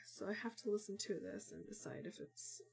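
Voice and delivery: stuffy, sniffly sick voice; talking with a bad cold. Real, not acted. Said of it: "I feel like I sound very, very sick".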